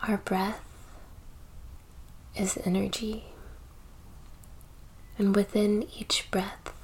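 soft, unhurried meditation voice with long pauses; slightly hushed, spacious delivery, letting each phrase settle; guided meditation. Acted. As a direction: gently guide the listener into breath and stillness.

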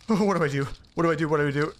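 flustered, repeating the question in a rush; frantic at the bug in the room; panicked. Acted.

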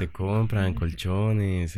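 slow stretched vendor call; crackly looped vendor recording. Retold or imitated. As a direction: drag it out like a street vendor recording. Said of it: "la voz del carrito".

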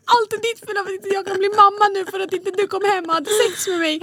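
high-pitched angry accusation; retold angry blame. Complaining to her husband, angry high accusation. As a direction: throw all the blame at him. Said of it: "jag var så arg".

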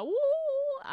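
high, loud drawn-out "woo"; mock excited whoop. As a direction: whoop for a big reveal. Mock fanfare for a reveal.

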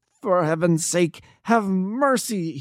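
high, slow, desperate begging for mercy; shrieking plea. A narrator's reading. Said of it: "he shrieked".

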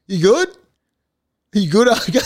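high, laughing "you good?"; worried check-in. Retold or imitated. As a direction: nudge a knocked-out mate, half laughing. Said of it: "I'm watching him just going".

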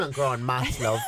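laughing through a mock reply; half-laughed impression of a coworker. Telling her friend the story, laughs through the quote. Imitating Noogle's answer.

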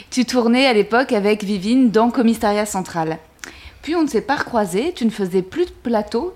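lightly performed letter reading; reading aloud. Acted. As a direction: read it like a tribute. Reads her poem-letter to Nadia.

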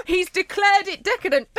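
hammed-up shock at a cheese verdict; mock astonishment. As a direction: gasp then high breathless announcement.

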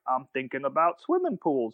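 lightly voiced film dimwit with shallow thoughts; a hint of a vacant movie character; Adam Sandler. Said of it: "there's a part in it where Adam Sandler".

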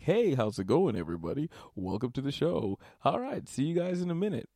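host greeting. Retold or imitated. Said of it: "where I'm like".

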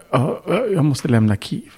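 a hint of high panicked wife. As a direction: lightly voice her frantic pleading. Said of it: "full panik".

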